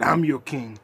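loud mock challenge, a rise on the question; hammed-up villain boast; imitating Killmonger. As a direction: throw down the challenge like a rival king.

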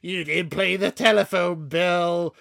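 lightly voiced nagging partner, the last line slow; a hint of a whiny scolding partner; understated mock nag listing chores; mock nagging girlfriend. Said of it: "she keeps saying stuff like".

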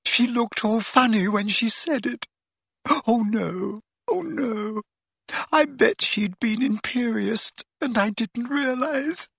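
put-on high-pitched distraught girl; shaking, tearful. A narrator's reading. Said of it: "had started to shake uncontrollably".

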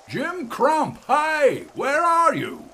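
high ringing shout of a name across the dark; calling shout. A narrator's reading. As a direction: hail him from below at full voice. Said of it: "he shouted".

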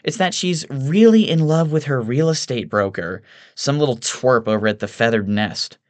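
high-pitched amused socialite; amused Evelyn. A narrator's reading. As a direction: share gossip in a high woman's voice. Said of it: "also amused".

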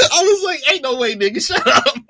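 high, loud laughing yell; cracking up while yelling; laughing shout. Real, not acted. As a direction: shout it through laughter in disbelief. Laughing shout retelling own reaction.

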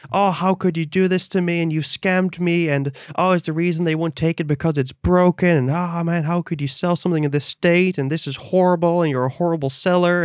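lightly acted outraged buyer; aggrieved buyer. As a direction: imitate an upset customer's string of accusations. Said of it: "he has sent me eight messages".

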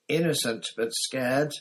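high, loud squeal. A narrator's reading. Pettigrew squealing his innocence to Lupin, high and loud. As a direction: squeal it out like a cornered rat. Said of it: "squealed Pettigrew".

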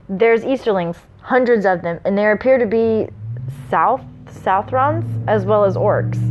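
measured storyteller's read; story narration. A narrator's reading. Reading the prologue to listeners, story narration. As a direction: read it out with mild dramatic weight.

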